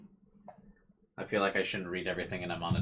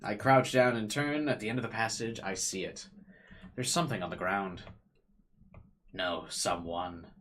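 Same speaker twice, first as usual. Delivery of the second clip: dramatic reading. A narrator's reading.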